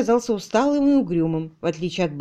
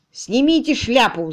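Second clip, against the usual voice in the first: shouted order; 3 semitones higher, 4 dB louder than usual. Acted. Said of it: "закричал и мистер Параден".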